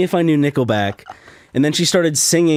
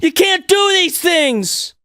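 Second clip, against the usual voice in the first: mock scolding; much slower than usual. Scolding Ming for her antics, high mock outrage. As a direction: scold her like a misbehaving pet.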